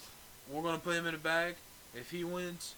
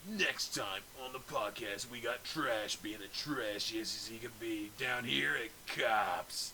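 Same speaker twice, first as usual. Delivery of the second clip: slow, lower, hammed-up TV announcer; 5 semitones lower, 3 dB quieter, much slower than usual. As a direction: tease the next episode like a TV promo. Mock show announcer.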